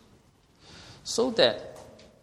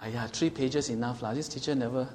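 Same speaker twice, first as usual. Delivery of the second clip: Singlish; 4 dB quieter than usual. Retold or imitated. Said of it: "Then presumptuous is".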